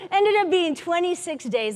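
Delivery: rueful laugh at the twenty-six days; laughing disbelief. Real, not acted. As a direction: laugh at how long it really took.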